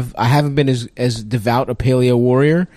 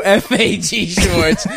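slow emphatic; 3 semitones higher, much slower than usual. Acted. Repeating the nickname slowly.

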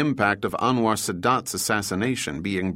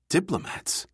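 high-pitched, incredulous scoff that falls away; 8 semitones higher, 3 dB quieter than usual. A narrator's reading. Juan dismisses Overholt's faith in diplomats, scoffing. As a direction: scoff at the very word. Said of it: "Juan scoffed".

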